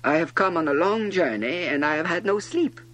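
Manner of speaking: high, loud, flustered explanation; embarrassed. A narrator's reading. Little prince explaining his yawn, embarrassed. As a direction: plead your case in embarrassment. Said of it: "thoroughly embarrassed".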